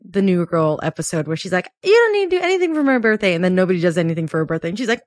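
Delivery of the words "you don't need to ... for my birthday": quoting a sitcom character. Retold or imitated. New Girl character quote.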